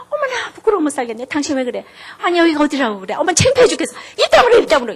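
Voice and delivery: hammed-up mortified wife; embarrassed wife. Embarrassed wife scolding her husband in public, mock fuss. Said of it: "우리 같으면 이럴 거 아니야".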